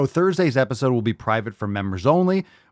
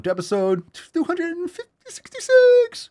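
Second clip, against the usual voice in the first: a much higher, louder show-host voice; announcer voice; 5 dB louder than usual. Acted. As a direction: announce the episode like a cartoon host. Intro in put-on high voice.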